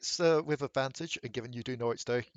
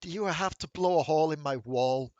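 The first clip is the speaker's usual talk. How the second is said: annoyed host scolding guests; fed-up complaint about the walls; exasperated NPC. Acted.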